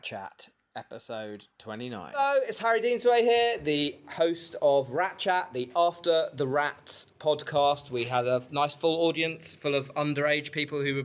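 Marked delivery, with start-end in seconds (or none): 2.2-7.9 podcast host intro. Acted. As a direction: announce the show like a host.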